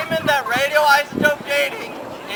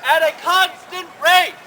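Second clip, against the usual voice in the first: raised voice. Real, not acted. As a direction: raise your voice to be heard. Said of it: "Why are you yelling?".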